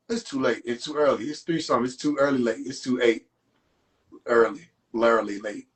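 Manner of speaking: low, muddled murmur, words tumbling; low mumbling. Pretend. Mocking a muddled, drowsy voice. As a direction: mumble like you're half asleep and lost. Mumbled confused rambling bit.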